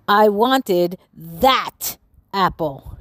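slow, stretched-out mock shout; slow, sulky monster complaint; drawn-out angry shout. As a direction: drag out every word like a sulking monster. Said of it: "shouted Marvin".

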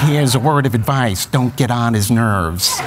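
very slow, menacing Nicholson advice through a laugh; Jack Nicholson impression. Dad gives advice, slow and laughing, as Nicholson. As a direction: drag it out like Nicholson, half laughing. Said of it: "thinks he's Jack Nicholson".

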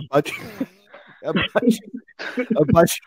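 words broken by real laughter; trying to talk through giggles; laughing. Real, not acted. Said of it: "I can't stop laughing now".

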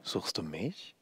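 soft, eerie whispered question; otherworldly voice. A narrator's reading. Hidden old woman taunting her hunter, otherworldly hush. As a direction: ask very softly, as if from beyond. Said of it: "diese jenseitige Stimme".

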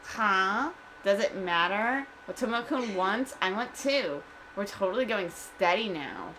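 put-on airy, unbothered Valley Girl. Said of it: "like Valley Girl".

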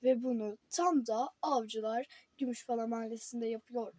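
reading headlines like an anchor; newscaster voice. Pretend. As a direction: pretend TV news read. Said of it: "tam bir spiker gibi konuştum". (haber spikeri gibi)

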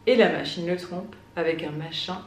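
measured poem recital with deliberate pauses; poetry reading. Acted. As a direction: read the poem aloud, lingering between the lines. Reads a poem aloud. (lecture de poème, posée)

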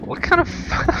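breathless wheeze, high squeak; wheezing laugh. Real, not acted. Laughing at silly password.

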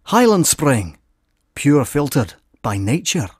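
a stronger Scottish burr on the ad line. Shown as a demonstration. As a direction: push the Scottish accent further, slow tagline. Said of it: "More Scottishy".

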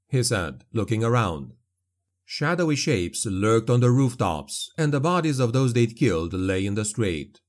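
plain reading voice

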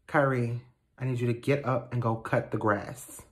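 low-key stern command, kept quiet; stern, bassy order. Acted. Stepmother telling stepson to do yard work, stern and bassy. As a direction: give the order with bass in your voice. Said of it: "remove the bass from your voice".

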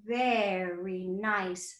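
sighing and slow; slow soothing voice. Shown as a demonstration. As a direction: settle them gently. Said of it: "breathing exercise demo".

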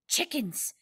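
high, hushed, softly breathed word. A narrator's reading. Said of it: "he breathed".

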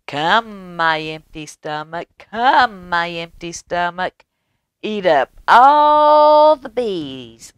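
high, loud little rooster chanting his spell; sing-song rooster commanding his stomach; rooster calling. Acted. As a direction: call it out like a proud little rooster. Rooster's magic call.

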